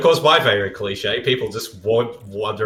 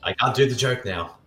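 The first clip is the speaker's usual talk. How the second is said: laughing self-quote; 3 semitones higher, 4 dB quieter than usual. Retold or imitated. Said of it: "and I'm like".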